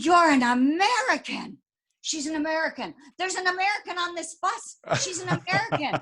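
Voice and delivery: imitating astonished women, high-pitched; excited retold chorus of discovery; amazed excitement. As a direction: spread the amazing news in a high voice. Ladies amazed to meet an American.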